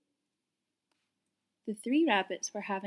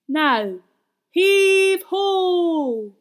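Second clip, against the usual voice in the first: higher, loud hauling cry; rally everyone to pull; heave ho call; 8 semitones higher, 12 dB louder, much slower than usual. A narrator's reading. Percy calling the rescuers to pull, loud. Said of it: "said Percy".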